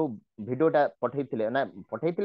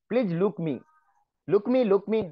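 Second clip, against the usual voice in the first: wrong version; 3 semitones higher than usual. Shown as a demonstration.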